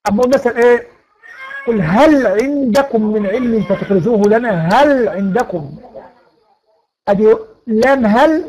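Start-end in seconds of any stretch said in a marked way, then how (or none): 1.7-5.7 "هل" with its lam sounded clearly before "عندكم"; clear izhar demonstration. Shown as a demonstration. Teacher showing students izhar in "هل عندكم", clearly articulated. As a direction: recite slowly, keeping the ل of "هل" distinct, unmerged. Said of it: "حكمها الإظهار".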